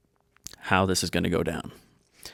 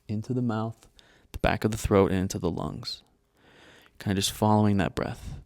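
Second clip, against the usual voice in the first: guided meditation; 2 semitones higher than usual. Real, not acted. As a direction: guide them calmly, leaving space between phrases.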